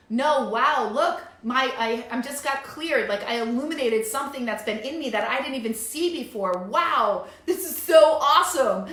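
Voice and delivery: bright, rising thrilled voice; joyful excitement. Pretend. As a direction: gush with joy at the discovery. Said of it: "It's like".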